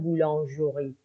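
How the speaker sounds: بولانژوری with an added o between ژ and ر; optional vowel. Shown as a demonstration. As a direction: sound the middle vowel in بولانژوری. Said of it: "یعنی اختیاریه". (بولانژوری با اوی میانی)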